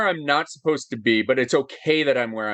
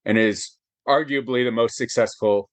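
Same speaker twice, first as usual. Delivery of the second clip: choked up; 3 semitones lower than usual. Real, not acted. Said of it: "choked up now".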